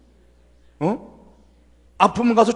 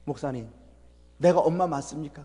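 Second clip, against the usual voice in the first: retold crying; 7 semitones lower, 8 dB quieter than usual. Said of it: "울면서 이런 얘기를 해요".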